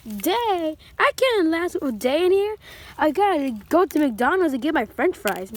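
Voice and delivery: shrill toy prisoner begging to get out, loud and high; whiny high protest. Pretend. Octopus toy begs his jailer for McDonald's, loud high whine. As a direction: wail that one day is too long.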